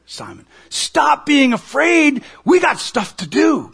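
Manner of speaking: 단호하면서 다정한 예수의 목소리; voicing Jesus. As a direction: passionate Jesus, pleading then urging. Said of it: "Jesus says".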